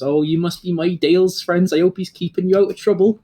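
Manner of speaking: a proud father beaming over his son; jolly old dad. Acted. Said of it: "turns to you four and goes".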